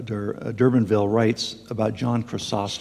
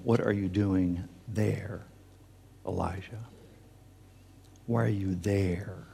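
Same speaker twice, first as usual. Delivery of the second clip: slow, detached questioning, trailing softer; distant and aloof; 5 dB quieter than usual. Acted. Preacher imagines God looking on at the cave, distant and aloof. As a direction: ask it slowly, as an onlooker from afar. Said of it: "As though God were distant and aloof".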